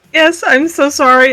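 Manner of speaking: speech broken by laughter. Apologizing in a serious conversation after laughing at a picture, laughing while talking. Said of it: "I should not be laughing".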